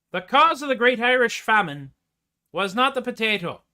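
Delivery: mock-earnest Irish accent; put-on Irish accent. Performer correcting the crowd on the famine, put-on Irish. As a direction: declare it in a stage Irish. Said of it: "I'm already speaking in Irish".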